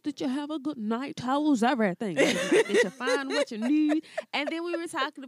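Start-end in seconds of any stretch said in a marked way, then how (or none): 0.0-4.0 cashier voice. Retold or imitated. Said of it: "she was like".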